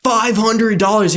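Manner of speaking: high, slow price reveal; mock price announcement. Website showing an inflated price, mock grandeur. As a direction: stretch the big price out up high.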